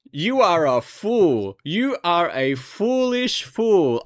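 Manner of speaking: mock scolding.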